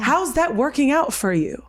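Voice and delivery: mock-concerned inner voice; very sarcastic. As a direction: ask it with pointed sarcasm. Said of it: "this very sarcastic voice".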